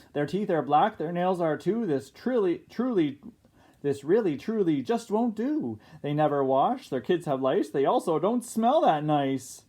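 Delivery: a touch of the outraged snob; complaining neighbor. Acted. Miss Devine listing the pirates' faults, mildly outraged.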